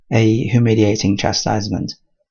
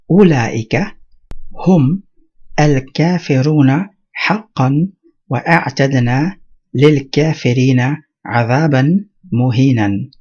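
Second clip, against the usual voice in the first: Quran recitation; faster than usual. Acted. Teacher reciting the verse to students, intoned. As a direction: lift the voice and intone the ayah. Reciting ayah one five one.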